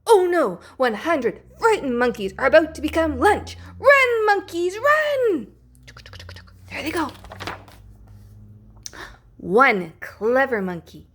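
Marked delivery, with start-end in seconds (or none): 3.8-5.5 high and loud, urging them on; urgent. A narrator's reading. Urging monkeys to flee. 6.7-7.1 higher, brisk, "go" clipped short; an excited aside as they dash; "go" said quickly on a high note; lively there they go. A narrator's reading. Monkeys racing off.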